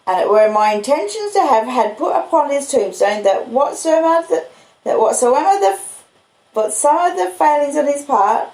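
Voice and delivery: Joe the blacksmith. Acted. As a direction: speak as simple, proud Joe. Joe voiced in the story.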